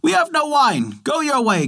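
put-on high-pitched children reciting their lines; children's voice. A narrator's reading. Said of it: "so they said to him".

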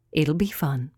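breathy whispered promise; hushed moon voice. A narrator's reading. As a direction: whisper it like a secret. Moon reassures Winky secretly.

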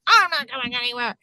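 hammed-up kid protest; imitated crying child. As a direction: imitate a tearful child refusing. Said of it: "he's, like, crying".

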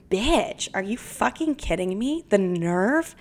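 indignant retort with swooping pitch; acted-out, offended disbelief; mock outrage. Client snapping back at the psychic, mock outrage.

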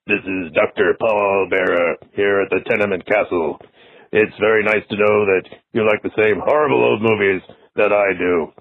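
a hint of a ghoulish TV horror host greeting a fan; Doctor Paul Bearer impression. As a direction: horror host voicemail to Derek, mild spooky impression. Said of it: "I did a spot-on impression of Doctor Paul Bearer".

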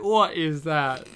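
puzzled question at the actor's line; baffled. Retold or imitated. Reacting to a strange movie accent, puzzled. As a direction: ask it like you can't place the sound. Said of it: "and I'm like".

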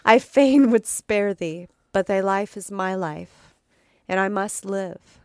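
a hint of an anguished Count, pleading. The Count pleads with sleepwalking Gabriel, anguished.

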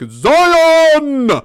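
high, loud, booming mock Morpheus cry; Morpheus speech. Podcaster mimicking Morpheus addressing the people of Zion, hammed-up shout. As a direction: ham up a rallying cry to the crowd. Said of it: "he's just like".

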